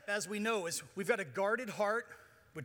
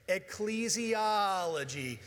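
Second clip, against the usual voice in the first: slow call-and-response; 2 semitones lower, much slower than usual. Shown as a demonstration. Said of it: "Say it with me".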